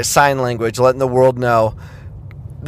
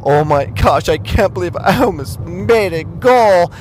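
mock disbelief; 6 semitones higher than usual. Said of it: "the head about how".

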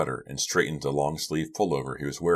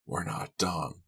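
quiet, forced through teeth; through clenched teeth; 2 semitones higher, 6 dB quieter, slower than usual. Acted. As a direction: grit your teeth and say it. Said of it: "through clenched teeth".

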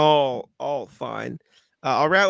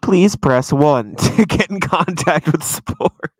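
phone menu voice; 3 semitones higher, 11 dB louder, slower than usual. Acted. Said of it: "get hit with a robo answer".

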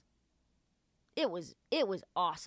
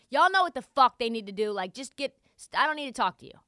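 mock emphatic quote; 5 semitones higher, 7 dB louder than usual. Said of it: "he says".

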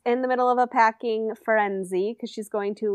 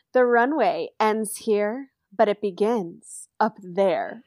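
Tyra impression; slower than usual. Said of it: "Tyra going".

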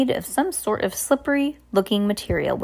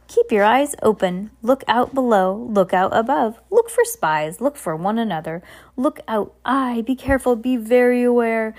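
a cheerful, scatterbrained captain contradicting himself; scattered cheerful captain; 3 semitones higher than usual. Acted. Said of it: "voices that were shouting so many instructions".

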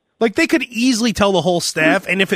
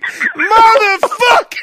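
slow, drawn-out curse; Joe Pesci curse; 11 semitones higher, 4 dB louder, much slower than usual. Retold or imitated. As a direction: stretch the swear like Pesci in the basement. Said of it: "like in Goodfellas when".

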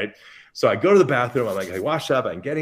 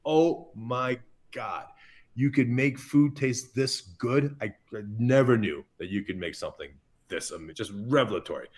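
awed inner voice. Retold or imitated. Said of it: "My mind just went".

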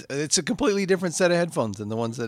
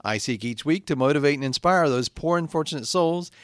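measured, declaimed show opening; podcast intro; slower than usual. Acted. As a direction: recite your solemn intro from hell. Host recites show intro.

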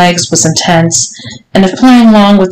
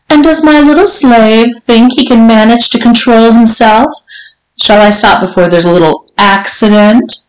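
lightly voiced mistress, teasing and higher at first; taunting mistress; 4 semitones higher than usual. Mistress testing his self-control, lightly taunting. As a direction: dangle the question mockingly. Voices the story's Missus Johnson.

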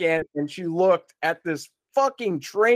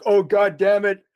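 raised, exasperated cursing at the absent wife; higher-pitched retold panicky rant; dad freaking out; 5 semitones higher than usual. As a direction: rant like a desperate dad who badly needs the toilet. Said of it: "freaking out".

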